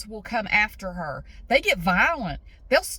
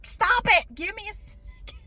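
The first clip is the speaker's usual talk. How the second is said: yelling at birds; 9 semitones higher than usual. Retold or imitated. Woman yelling at swooping birds, high frantic yell. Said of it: "I'm yelling at the birds".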